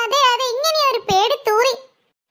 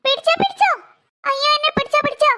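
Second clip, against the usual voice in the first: higher, rising cry of catch me; panicked call for help; 4 semitones higher than usual. Acted. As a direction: call out as you slip from the tree. Child slipping calls for catch.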